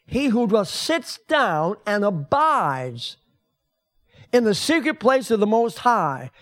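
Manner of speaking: drawn-out, reverent reading; slow, reverent preacher reading; slow scripture reading. Shown as a demonstration. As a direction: read it slowly like holy words. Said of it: "scripture read slowly".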